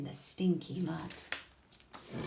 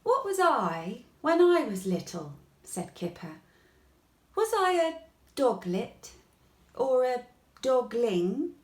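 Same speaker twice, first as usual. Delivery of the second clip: puzzled questions; 5 semitones higher, 5 dB louder than usual. A narrator's reading. Kipper puzzled about himself.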